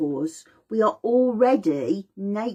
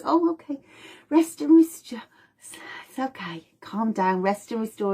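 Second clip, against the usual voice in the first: soothing calm; 2 semitones higher than usual. Pretend. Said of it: "sympathetic goes".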